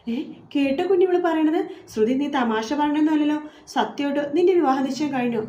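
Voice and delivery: disbelieving, pitch jumping up; shocked. Acted. Anjali astonished. (വിവാഹ നിശ്ചയം കേട്ട് ഞെട്ടിയ അഞ്ജലി, ഉയർന്ന ശബ്ദത്തിൽ)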